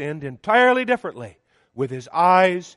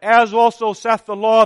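louder and higher, "As" hit hard; emphatic quote; 5 semitones higher, 6 dB louder than usual. Acted. Preacher rebutting the culture argument to the congregation, emphatic. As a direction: proclaim "As also saith the law" as settled fact.

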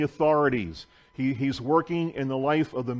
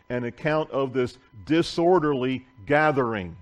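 deliberate, projected Bible reading; scripture reading. Acted. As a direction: read the passage out to the church. Reads scripture aloud to congregation.

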